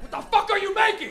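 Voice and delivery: high, loud baffled shout; baffled viewer. Retold or imitated. Kid at home yelling at the art show, baffled and loud. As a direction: yell at the TV in confusion. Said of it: "you're at home like".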